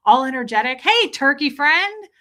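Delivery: bright newsreader greeting, hammed up; all energetic. Shown as a demonstration. Streamer demoing her upbeat news-anchor greeting. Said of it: "I'm all energetic".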